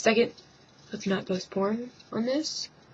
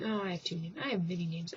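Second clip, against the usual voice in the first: lightly ape her smugly; mocking imitation; 10 dB quieter, faster than usual. Vlogger mocking a singer's two names, lightly mocking.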